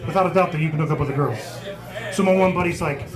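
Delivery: usual speaking voice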